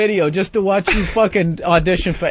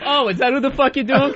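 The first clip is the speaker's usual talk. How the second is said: higher-pitched mocking disbelief; mock realization; 7 semitones higher than usual. Host voices an audience puzzled by the impression, mock surprise. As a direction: play a baffled crowd, pitched up.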